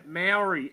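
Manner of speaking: "Maori" with an "ow" sound in the middle, as MAO-ri; Maori pronounced his way. Real, not acted. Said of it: "that's my accent".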